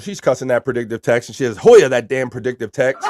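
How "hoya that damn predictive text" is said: laughing read. Real, not acted. Host reading a chatter's typo complaint, laughing. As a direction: read it out loud through a laugh.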